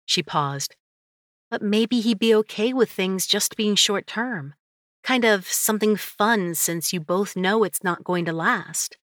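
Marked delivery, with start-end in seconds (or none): 1.5-9.0 higher, lightly suggesting friend; playful friend voice. Acted. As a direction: float the idea playfully.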